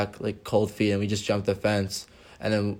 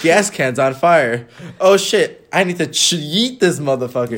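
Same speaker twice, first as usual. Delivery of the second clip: mock panic; 4 semitones higher, 6 dB louder than usual. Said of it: "I was like".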